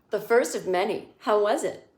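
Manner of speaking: a light hint of Samantha, sly and knowing. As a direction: voice her faintly, just a touch playful. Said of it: "Oh, I'll be Samantha".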